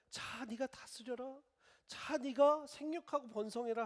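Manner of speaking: slow, high, solemn commands; voice of God. Acted. God blessing Adam and Eve, slow and solemn. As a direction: hand down the blessing slowly and grandly.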